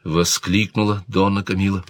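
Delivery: ordinary delivery, nothing marked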